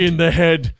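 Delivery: comic Irish echo at normal pitch; Irish accent. Acted. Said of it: "slipping into Irish for Braveheart".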